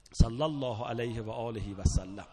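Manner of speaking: full-throated cry to close the chant; shouted slogan. Retold or imitated. Preacher shouting the Karbala battle slogan to mourners. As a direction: shout it out to the crowd. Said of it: "شعارتون این باشه".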